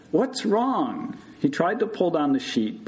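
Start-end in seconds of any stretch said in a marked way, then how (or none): 0.1-1.2 high-pitched raised question; shout. A narrator's reading. Morris questions patient assumed hard of hearing, shouting. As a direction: call it out to someone hard of hearing. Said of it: "he shouted".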